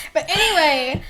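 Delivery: normal talking voice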